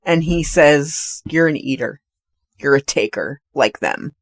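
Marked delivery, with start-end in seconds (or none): 1.2-4.1 lower, softer measured rebuke; retold stern lecture. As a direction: imitate a cold scolding with pauses. Retold chef lecturing the diner.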